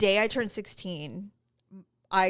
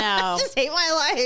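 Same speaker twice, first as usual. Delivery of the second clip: laughing despair; 4 semitones higher, 4 dB louder than usual. Retold or imitated. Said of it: "And I'm like".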